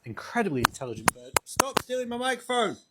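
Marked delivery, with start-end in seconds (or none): 1.4-2.8 playful exclaim. Real, not acted. Raven grabs the microphone.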